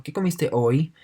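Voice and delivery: comiste hoy lifted into a questioning rise; rising question tune. Shown as a demonstration. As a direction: ask "¿qué comiste hoy?" with the pitch climbing to the end. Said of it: "cómo sube el tono". (entonación de pregunta ascendente)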